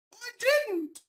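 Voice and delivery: squeaky high protest; high squeaky denial. Acted. Second pig denying she said it, squeaky and high.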